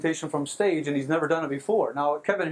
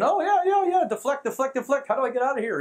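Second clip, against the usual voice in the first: brush-off impression; 8 semitones higher than usual. Kevin brushing him off, retold.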